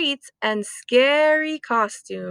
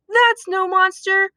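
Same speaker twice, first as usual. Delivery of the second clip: higher eager exclamation; excited cry; 6 semitones higher, 3 dB louder than usual. Acted. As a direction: call out the discovery. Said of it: "cried Oscar".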